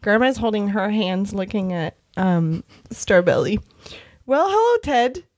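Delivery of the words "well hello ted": put-on high, sweet old lady voice; Grandma voice. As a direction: coo it like a sugary grandma. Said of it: "Okay, I'll be Grandma".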